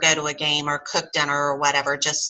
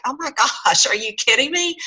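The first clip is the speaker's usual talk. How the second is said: high, laughing are-you-kidding-me; laughing disbelief; 6 semitones higher than usual. Retold or imitated. Friend Lisa to Jan, amused and incredulous. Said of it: "she's like".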